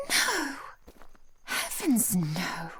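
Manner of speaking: high, startled snap of refusal; a flustered, sharp no. Acted. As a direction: cut the idea off sharply. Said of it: "I'm sorry for snapping at you before".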